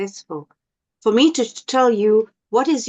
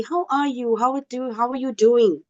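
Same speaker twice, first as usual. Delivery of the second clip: caring greeting; 4 semitones higher than usual. Shown as a demonstration. Teacher stops and holds your hand, caring greeting. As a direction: ask as if you truly want the answer. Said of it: "tone of voice that is caring".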